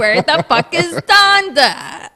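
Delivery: slow, loud fake wail; mock sobbing. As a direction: wail it like a crybaby. Mock crying over album.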